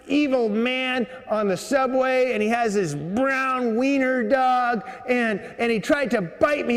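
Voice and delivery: high-pitched imitation of an indignant woman; outraged woman complainant. Woman reports attack to subway security.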